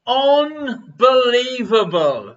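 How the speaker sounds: slow, stretched Unbelievable; drawn-out answer. Acted. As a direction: draw out Unbelievable slowly.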